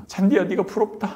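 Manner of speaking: imitated weeping envy; half-sobbed lament to the grass; mock tearful wail. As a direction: whimper it as if crying. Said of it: "잔디를 붙잡고 막 웁니다".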